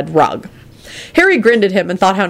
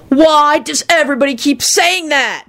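high, exasperated stoner shriek; higher-pitched fed-up complaint; 9 semitones higher than usual. Acted. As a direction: squeal it out in frustration. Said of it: "shrieked Kenny".

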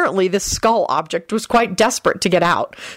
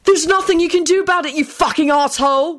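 high, gloating angry yell; jeering, high-pitched outburst; triumphant scream; 11 semitones higher than usual. A narrator's reading. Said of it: "William screamed triumphantly".

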